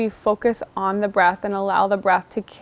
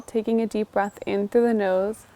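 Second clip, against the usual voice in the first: guided meditation; 3 dB quieter than usual. Shown as a demonstration. Teacher now guiding the class through the breath, soft meditation voice. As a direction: lead the inhale gently instead of explaining it. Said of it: "then you guys can follow along afterwards".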